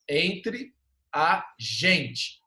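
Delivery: "Entre", a short pause, then "a gente"; A separado. Shown as a demonstration. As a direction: keep the "a" detached from "Entre". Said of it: "Esse A que fica separado". ("Entre", pausa, "a gente" separado)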